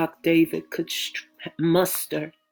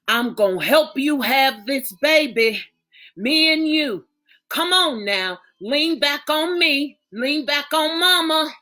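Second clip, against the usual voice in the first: mother coaxing her daughter, higher and urgent; 5 semitones higher, 4 dB louder than usual. Acted. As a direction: urge her on like a mama at the bedside. Mother coaching daughter through birth.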